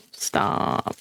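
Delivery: breathless whispered Stop. Real, not acted. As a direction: whisper the word Stop as if pleading. Begging the slime to stop sticking.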